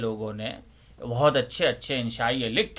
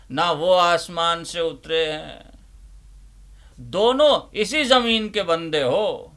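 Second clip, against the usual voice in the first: essay reading. Acted. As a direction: read it like an orator pleading for tolerance. Reads the essay aloud. (جوشیلے انداز میں انشائیہ پڑھنا)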